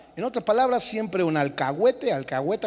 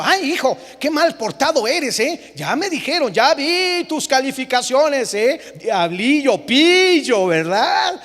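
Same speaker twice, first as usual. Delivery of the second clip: soft-scolding parent; 3 semitones higher, slower than usual. Retold or imitated. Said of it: "No basta que tú le digas a tu hijo".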